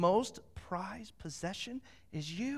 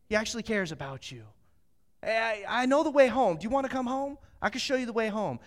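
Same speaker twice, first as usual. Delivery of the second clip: raised-pitch, friendly reassurance; coaxing a dog; 5 semitones higher than usual. Pretend. Man imagined as a dog persuading Scout home, coaxing. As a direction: gently talk the stray into coming home.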